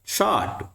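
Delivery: शार्ट with the R said fully; wrong reading. Shown as a demonstration. Teacher shows students the wrong शार्ट, R rolled. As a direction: say शार्ट sounding the R. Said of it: "शार्ट नहीं है ये".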